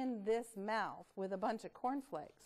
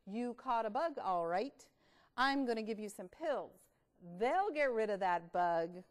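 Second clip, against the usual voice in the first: doctor voice. Acted. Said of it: "said the doctor".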